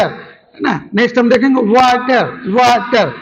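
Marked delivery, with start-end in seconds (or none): 1.6-2.2 "water" split as wa, then ter; syllable by syllable. Shown as a demonstration. Teacher giving students another example, "water" split into syllables. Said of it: "शब्द को तोड़ तोड़ के बोला जाता है". 2.6-3.1 "water" split as wa, then ter; syllable by syllable. Shown as a demonstration. Teacher giving students another example, "water" split into syllables. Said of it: "शब्द को तोड़ तोड़ के बोला जाता है".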